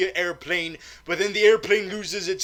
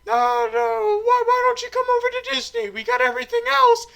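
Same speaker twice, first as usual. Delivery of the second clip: very high cartoon mouse falsetto; Mickey; 5 dB louder than usual. Mouse recruiting James Bond to Disney, squeaky mouse impression. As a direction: squeak it out fast and loud with mousy chuckles. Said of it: "the mouse is like".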